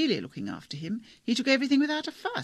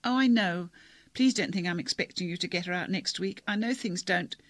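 lightly voiced girl on the verge of tears, higher; a touch of crying in a pleading voice; tearful girl; 3 semitones higher, 3 dB louder than usual. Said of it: "She was crying".

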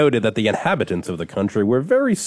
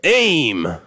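captain's shout; 3 semitones higher, 4 dB louder, much slower than usual. Retold or imitated. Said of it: "the captain shouted".

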